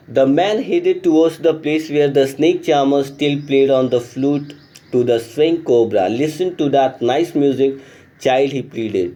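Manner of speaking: slow, careful reading of the story text. A narrator's reading. Teacher reading the English lesson aloud, slow and clear. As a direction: read the passage slowly for the class.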